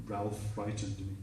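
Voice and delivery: very soft, subdued confession; small traumatized voice. Retold or imitated. Shaken singer telling girlfriend, small and quiet. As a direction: confess it faintly like an upset child.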